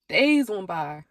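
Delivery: laughing slow repeat. Real, not acted.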